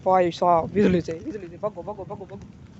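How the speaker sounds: loud half-playful alarm, urging everyone to run; alarmed shout. Real, not acted. Vlogger caught in the storm warns viewers about lightning, loud alarmed call. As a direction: yell a warning as lightning cracks overhead.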